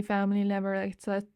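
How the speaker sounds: rushed, garbled and cut off mid-word; tripping over words. Real, not acted. Reader quoting a film line too fast, stumbling. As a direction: rush it until the words can't catch up. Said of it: "I was speaking too fast".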